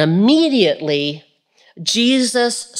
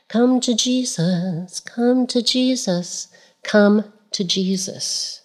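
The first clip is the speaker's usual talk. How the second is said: gentle altar call; 2 semitones higher, 3 dB quieter, slower than usual. Real, not acted. Preacher's slow soft invitation.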